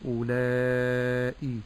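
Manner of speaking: أولئي drawn slowly with a light single hamza; correct hamza with kasra. Shown as a demonstration. Sheikh modelling the correct hamza sound slowly. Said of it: "ولكن أقول".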